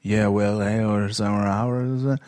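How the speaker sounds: slow fake English gibberish; fake foreign language. Shown as a demonstration. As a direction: babble pretend English slowly. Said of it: "so Fantasie-Englisch brabbeln?".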